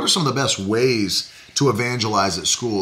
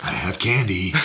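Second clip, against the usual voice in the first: creepy stranger voice; 7 semitones lower, 3 dB quieter than usual. Pretend.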